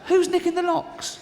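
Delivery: high, shouted comic indignation; exasperated outrage. Acted. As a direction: shout it in disbelief, pitched right up. Outraged rant about stolen locks.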